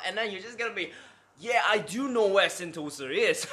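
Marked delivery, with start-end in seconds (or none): 1.4-3.4 higher, louder mimicked Western accent; put-on foreign accent. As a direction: mirror the tourist's accent, exaggerated. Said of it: "You gotta have that accent".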